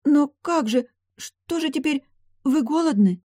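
high, fretful questions; anxious maid. Acted. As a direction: fuss over her in alarm. Maid panics over mistress.

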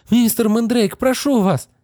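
mother pleading for her daughter; begging mother. Acted. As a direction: beg him for mercy. Mother begs the wizard.

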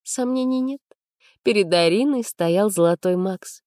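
usual speaking voice

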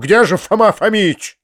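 high, impatient shout. A narrator's reading. Master to Vidoplyasov as he enters, shouting. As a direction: call out sharply to the servant. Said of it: "закричал он вошедшему Видоплясову".

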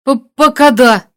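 hesitant stammer under strain. A narrator's reading. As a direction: trip on the first sound. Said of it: "заикаясь, ответил Фалкейн".

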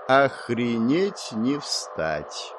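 very slow, dazed disbelief; stunned mutter. A narrator's reading. Hero flooded with new knowledge, stunned mutter. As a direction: draw it out, dumbfounded. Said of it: "пробормотал я".

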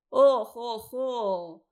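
loud mock laughter; loud crowd guffaw. A narrator's reading. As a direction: roar it like a crowd of lads. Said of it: "грохотали парни".

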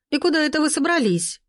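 high-pitched, demanding question; shrill lady catching the staff sneaking off. A narrator's reading. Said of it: "Визгливый голос".

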